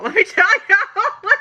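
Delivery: high squeaky repeat. Acted.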